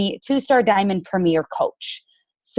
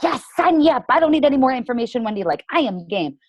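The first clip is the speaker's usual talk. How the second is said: much higher, fast eager yes-sayer; mock eager; 4 semitones higher than usual. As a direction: play the over-eager recruit who needs no more info. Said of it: "person who's like".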